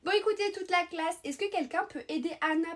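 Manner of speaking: high, loud call for attention; announcing to the class. Acted. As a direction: address the whole room at once. Addresses the whole class.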